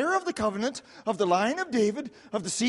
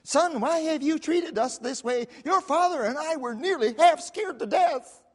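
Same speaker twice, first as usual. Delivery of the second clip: naggish Mary; 3 semitones higher than usual. Acted. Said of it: "Mary in naggish form says".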